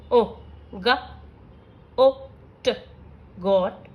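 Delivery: slow phonics blending with pauses; sounding out hat. Shown as a demonstration. Teacher showing short vowel examples, sound by sound. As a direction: say ए, हा, ए, ट as separate clipped sounds, then blend them into हैट. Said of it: "short vowel के कुछ examples हैं".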